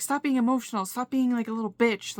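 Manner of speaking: lightly acted, insistent scolding; mock telling-off from a nagging inner voice. Anxious voices berating the speaker in their head, scolding. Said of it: "you have these voices".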